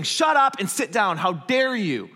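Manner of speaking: loud, scolding command; indignant rebuke; stern rebuke. Acted. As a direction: tell the storm off with force. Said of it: "what Jesus said if he's rebuking".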